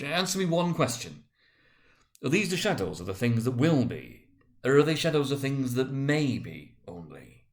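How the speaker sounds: put-on uneasy old miser pressing the ghost; a hint of anxious Scrooge.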